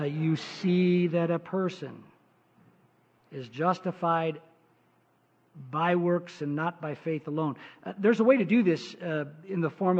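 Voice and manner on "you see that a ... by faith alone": slow, deliberate verse reading with pauses; read slower. Shown as a demonstration. Rereading James to skeptics, slowly and deliberately. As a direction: spell out the verse slowly for doubters. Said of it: "Okay, I'll read it slower".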